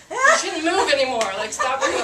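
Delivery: high, loud re-enacted warning; mock police order to back off. Retold warning to an advancing suspect.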